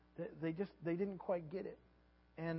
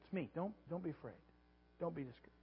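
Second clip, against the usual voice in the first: softer, calm and comforting; gentle reassurance; 5 dB quieter than usual. Retold or imitated. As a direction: soothe frightened friends softly. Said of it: "And he says".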